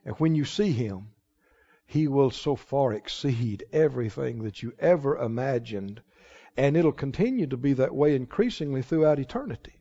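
soft, low, earnest awe; low, quiet assurance from the pulpit; hushed preaching. Real, not acted. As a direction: drop right down and let the wonder sink in.

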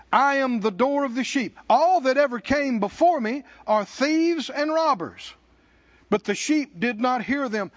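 full-voiced pulpit reading; loud proclamation. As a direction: proclaim it to the room. Preacher proclaiming scripture.

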